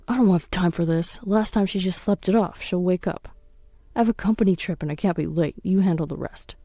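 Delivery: curtly brushing off his daughter; irritated father. Acted. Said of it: "his tone filled with irritation".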